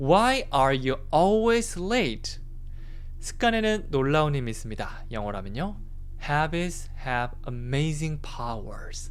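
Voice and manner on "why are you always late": always strongly stressed, hit hard. Practicing an English sentence with word stress: stress on always. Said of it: "항상 느낌 살려서 ... 강세 주면서 얘기해 볼게요".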